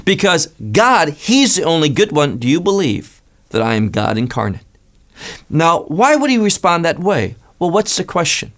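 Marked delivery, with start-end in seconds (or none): 0.0-4.6 a searching challenge in Messiah's voice; lightly voiced Messiah challenging the young man; voicing Messiah's challenge. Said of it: "he wants to say".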